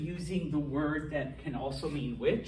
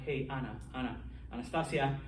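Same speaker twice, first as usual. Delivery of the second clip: calling out, building to a yell; 3 semitones higher, 3 dB louder than usual. Retold or imitated. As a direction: keep calling her name, louder each time, then shout qué. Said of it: "what did she just yell at me".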